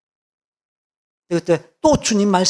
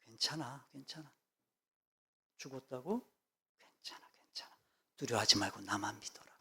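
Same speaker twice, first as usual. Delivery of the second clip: soft unvoiced whisper of comfort; 5 semitones lower, 21 dB quieter than usual. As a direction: breathe the words gently, almost silent. (속삭이며 다정하게 안심시키듯)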